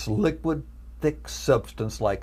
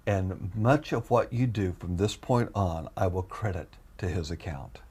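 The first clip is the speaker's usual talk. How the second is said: voice of the Lord; 4 semitones lower, 4 dB quieter than usual. Retold or imitated. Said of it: "I hear the Lord, the Lord saying to me".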